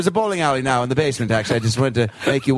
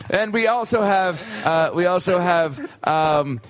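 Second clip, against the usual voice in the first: court servant; 3 semitones higher than usual. Acted. Servant continues menu.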